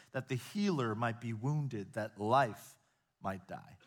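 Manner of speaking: slow, measured quotation fading to a hush; a preacher reading Augustine's Christmas lines, solemn to a hush. Acted. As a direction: read it slowly and let it fall away. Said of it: "Augustine of Hippo beautifully wrote".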